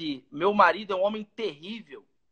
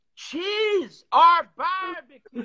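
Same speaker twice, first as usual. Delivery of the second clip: put-on very high voice with heavy British accent; 11 semitones higher, 3 dB louder than usual. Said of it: "Aquele sotaque britânico pesadão".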